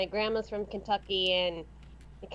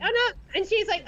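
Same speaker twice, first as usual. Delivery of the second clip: retold reassurance; 7 semitones higher than usual.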